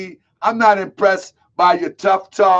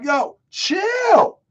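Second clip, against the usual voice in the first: mock yell; 10 semitones higher than usual. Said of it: "I'm like".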